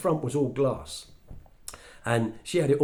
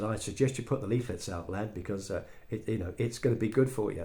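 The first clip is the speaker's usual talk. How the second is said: calm mentor; 3 semitones lower, 5 dB quieter than usual. Retold or imitated. Jim advising the young Brit, low calm voice. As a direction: lower and softer, steady advice. Jim's calm advice to the lad.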